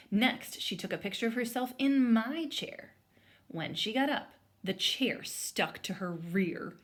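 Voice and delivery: put-on lively read-aloud voice for children; story read aloud. A narrator's reading. Teacher reading a picture book aloud to students, lively storytelling. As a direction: bring the story to life for the class.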